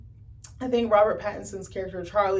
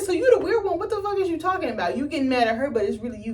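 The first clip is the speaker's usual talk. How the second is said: high incredulous rant; 6 semitones higher, faster than usual. Retold or imitated. Viewer yelling at Charlie through the screen, high and incredulous. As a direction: scold the screen like he can hear you. Ranting at a character in disbelief.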